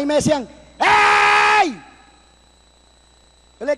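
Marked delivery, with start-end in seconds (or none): 0.8-1.8 calling out. Retold or imitated. Rescuers calling to survivor.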